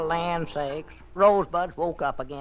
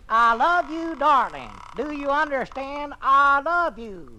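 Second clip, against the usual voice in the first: higher, louder, slow gushing declaration; swooning romance read; 7 semitones higher, 6 dB louder than usual. Acted. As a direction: swoon over every word. Reading romance aloud, swooning.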